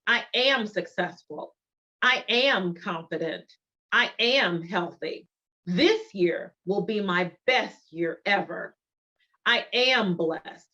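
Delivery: slow, steady affirmations with "am" stressed each time; emphasis on am. Shown as a demonstration. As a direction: press on "am" in every line like a daily creed. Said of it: "notice the emphasis on am".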